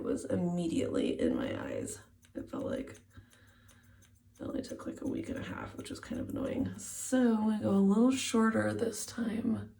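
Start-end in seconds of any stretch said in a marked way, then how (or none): 5.8-6.7 whispering. Real, not acted. Whispering while cutting.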